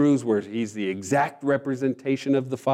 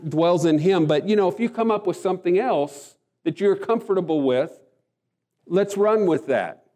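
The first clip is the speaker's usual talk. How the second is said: mock-casual God, dripping with sarcasm; raised, mocking offhand voice; sarcastic; 4 semitones higher than usual. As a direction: play it sarcastic, like a shrug. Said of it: "I'm being a little sarcastic".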